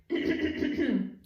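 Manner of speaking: gruff, loud clearing of the throat. Acted. Frog actor clearing his throat before speaking, loud. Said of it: "He cleared his throat".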